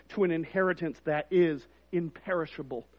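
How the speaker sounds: quiet, hushed read of "to an inheritance that is imperishable"; soft reading. Shown as a demonstration. Pastor first reads the verse to the congregation, soft. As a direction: say "to an inheritance that is imperishable" softly, held back. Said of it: "I want to read that again".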